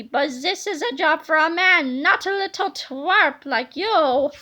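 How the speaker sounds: slow, scornful put-down; sneering brush-off. Acted. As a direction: look down on the little twerp. Villain sneers at twin.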